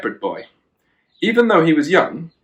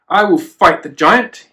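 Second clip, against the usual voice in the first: louder, higher determined shout; eager boy's declaration, raised; 5 semitones higher, 4 dB louder than usual. Acted. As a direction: shout it like a brave boy volunteering. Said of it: "he shouted".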